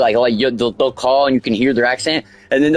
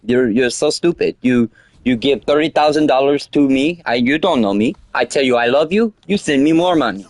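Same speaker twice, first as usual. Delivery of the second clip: put-on Indian accent. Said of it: "Indian accent".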